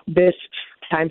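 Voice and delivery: coughing through a tickle in the throat; throat catching on hairspray; choking on hairspray. Real, not acted. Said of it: "sorry, I'm choking on hairspray".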